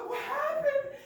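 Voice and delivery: high, loud startled question; surprised monkey. Acted. Monkey asking Bear what happened, startled. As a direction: ask in shock.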